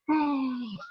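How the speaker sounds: high mock gasp; imitated shocked gasp. Dancers seeing the cat fly, mock-shocked gasp. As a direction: gasp sharply like the stunned dancers. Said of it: "And they're like".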